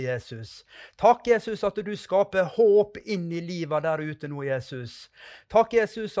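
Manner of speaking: preacher's thanksgiving prayer; fervent prayer. Acted. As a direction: pray aloud over the listeners, swelling on each takk. Leads a closing prayer.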